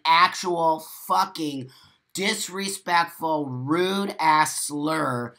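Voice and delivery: each word dragged out in disgust; naming the slur with slow disgust. Real, not acted. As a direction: drag it out with contempt.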